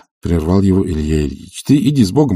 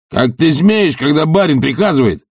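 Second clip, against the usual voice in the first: shouting; 6 semitones higher than usual. Acted. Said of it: "Закричал Тарантьев".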